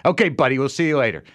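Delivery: mock-friendly New York dismissal; friendly brush-off. Shown as a demonstration. Showing how New Yorkers say get out of the way, friendly brush-off. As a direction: sound friendly while moving them along. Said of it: "it's friendly, but it clearly means".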